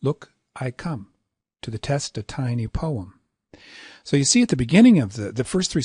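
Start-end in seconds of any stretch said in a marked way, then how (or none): 0.0-3.2 "Look" set apart, "I" short before "come", then flowing on; "Look, I come" as long-short-long verse opening. Shown as a demonstration. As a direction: pause after Look, pass lightly over I. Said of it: "short, long".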